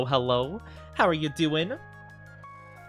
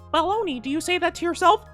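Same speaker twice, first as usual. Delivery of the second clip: mock viewer voice. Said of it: "And you might be like".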